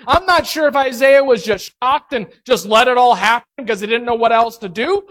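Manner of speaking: normal talking voice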